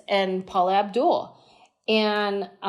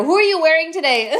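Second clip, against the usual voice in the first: interviewer voice; 8 semitones higher, 6 dB louder, faster than usual. Retold or imitated. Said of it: "she just keeps saying the same thing".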